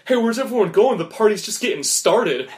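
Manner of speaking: high, loud call to a crowd. Acted. Reveler calling to everyone leaving the bar, loud and upbeat.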